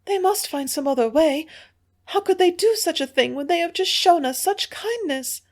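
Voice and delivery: high, distressed pleading; tearful plea. A narrator's reading. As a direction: beg through tears. Hilda continues weeping plea.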